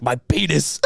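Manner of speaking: blurted mock confession to a receptionist; mock embarrassed confession. Mock complaint to receptionist about penis.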